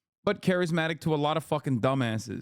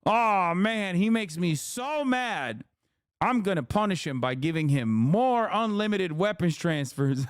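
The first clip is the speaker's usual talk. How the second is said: higher, slowed mock-frustrated Biden; 4 semitones higher than usual. Streamer mocking Biden to chat, in a higher whiny voice. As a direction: lampoon his fake anger.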